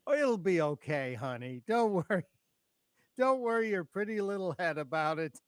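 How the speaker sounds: mock-sweet, talking down to her like a child; patronizing. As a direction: pat her on the head with your voice, a touch hammed-up. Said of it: "pat her on the head and go".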